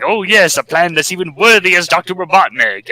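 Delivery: a lightly voiced eager lackey; fawning scientist. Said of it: "Grimer's like".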